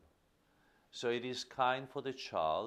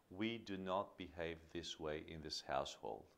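firm; 4 semitones lower, 7 dB quieter than usual. Shown as a demonstration. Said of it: "but in a firm way".

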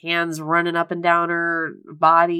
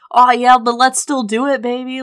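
put-on louder, oily "let's still do it, baby"; coaxing; 4 semitones higher, 6 dB louder than usual. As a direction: sweet-talk her shamelessly. Husband coaxing in retold scene.

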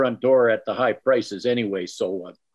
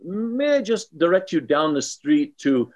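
fake French accent. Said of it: "my fake French accent for you".

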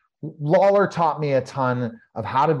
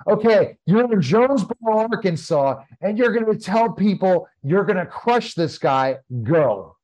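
promoter's instructions; 6 semitones higher than usual. Retold or imitated. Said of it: "I couldn't remember three minutes of a promo".

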